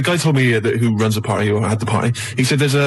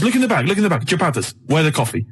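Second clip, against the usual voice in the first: lightly mocked foreign accent, broken English; put-on foreign accent; 2 semitones higher than usual. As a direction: challenge them in a muddled Italian-ish accent. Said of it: "getting a hint from the ac-, accent".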